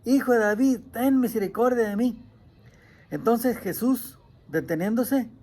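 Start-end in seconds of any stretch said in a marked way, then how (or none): 0.0-2.2 insistent plea in a slightly raised voice; crying out. Acted. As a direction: read it as a mild, urgent call. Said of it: "pero él clamaba mucho más".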